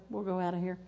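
normal talking voice

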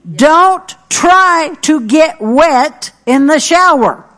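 "try" hit high and slow; stress on try. Acted.

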